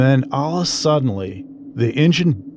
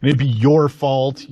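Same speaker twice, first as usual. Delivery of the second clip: higher-pitched, mild mock yell; retold angry yelling; 5 semitones higher than usual. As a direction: imitate an angry dad chewing someone out. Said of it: "my dad instantly just starts yelling at the guy".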